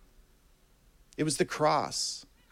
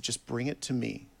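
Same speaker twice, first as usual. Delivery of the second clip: gentle divine reply; 2 semitones lower, 4 dB quieter than usual. Retold or imitated. God answering a struggling believer in prayer, gentle and hushed. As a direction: quietly invite them to hand it over.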